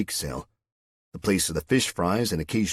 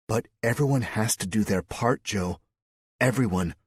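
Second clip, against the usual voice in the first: higher, firm rallying voice; Mary Lou; 4 semitones higher than usual. Acted. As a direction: urge him to commit.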